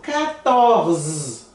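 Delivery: quatorze with no final E; French quatorze. Shown as a demonstration. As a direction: stop on the Z of quatorze. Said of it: "Não falo E no final". (quatorze sem E no final)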